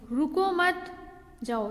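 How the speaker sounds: रुको मत said together, pause, then जाओ; group रुको with मत, then break; pause after मत. Shown as a demonstration. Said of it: "मत के बाद, अ, ये, अम, अल्पविराम लगा हुआ है".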